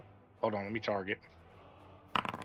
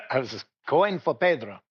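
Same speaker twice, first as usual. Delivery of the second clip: said through a laugh; 3 semitones higher than usual. Real, not acted. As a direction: chuckle while explaining. Player laughs explaining his move.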